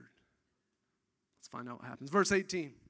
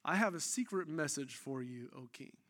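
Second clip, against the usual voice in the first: hushed Doc Holliday line; 5 semitones lower, 7 dB quieter than usual. Acted. Preacher voicing Ehud to the king, hushed and menacing. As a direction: lean in and murmur it like a cool gunslinger. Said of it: "this is the great Doc Holliday line".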